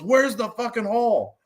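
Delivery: high-pitched mock panic; imitated terrified guy.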